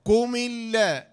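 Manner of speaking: slow "قم اللا" as qumi-lla, doubled l; syllable-by-syllable spelling. Shown as a demonstration. Teacher building the phrase, slow joined "قم اللا" with doubled l. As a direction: link "قم" into a held l in "اللا". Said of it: "لام شدة فتحة".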